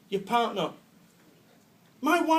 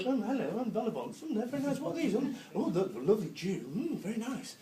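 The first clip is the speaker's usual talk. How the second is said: loony left networker; 6 dB quieter than usual. Retold or imitated. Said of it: "the loony left of networking".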